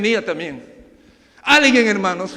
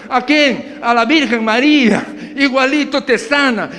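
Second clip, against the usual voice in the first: hawking seller; 4 semitones higher, 4 dB louder than usual. Acted. Preacher acts out indulgence seller.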